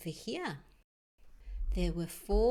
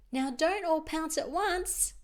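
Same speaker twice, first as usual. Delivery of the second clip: higher, louder warning; lightly voiced teacher; 7 semitones higher, 4 dB louder than usual. Mister Winko warning the owls, lightly voiced. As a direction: call out a mild classroom warning. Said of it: "said Mister Winko".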